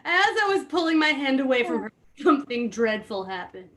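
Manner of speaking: rushed reread, breaking into laughter; trying to read while cracking up; laughing through it. Real, not acted. Rereading his story line to friends, laughing.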